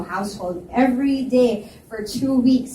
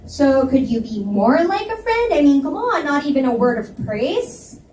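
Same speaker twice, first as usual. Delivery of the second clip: exasperated plea; 5 semitones higher, 3 dB louder than usual. Acted. I glared at him.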